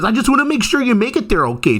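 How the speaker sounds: high, quick imitation of a helpful stranger; solicitous local. Local walking a tourist back through Toronto, solicitous imitation. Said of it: "Then the guy walked me all the way back".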